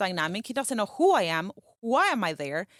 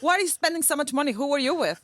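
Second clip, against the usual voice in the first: accusing; 4 semitones higher, faster than usual. Retold or imitated. Accusing wife retold.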